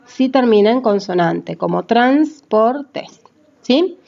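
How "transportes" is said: "transportes" slowly as trans, por, tes; syllable by syllable. Shown as a demonstration. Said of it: "cada una de las sílabas".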